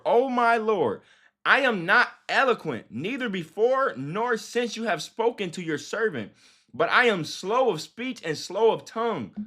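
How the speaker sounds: measured, emphatic Bible reading; preacher reading the verse aloud; scripture reading. A narrator's reading. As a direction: read it out to the congregation, stressing key words.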